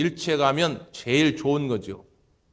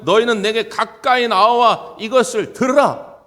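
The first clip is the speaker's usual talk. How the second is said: slow, louder summons to gather; God's call, preached; 5 semitones higher, 6 dB louder than usual. Acted. Pastor voicing God's summons to the people, loud and slow. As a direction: call the scattered people in, drawn out. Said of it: "십육 절에 보면".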